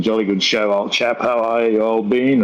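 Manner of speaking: lightly voiced old-time English chap; a hint of a jolly old Englishman; old English gentleman. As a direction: lightly imitate an English gent of long ago. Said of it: "like some old English guy from a long time ago".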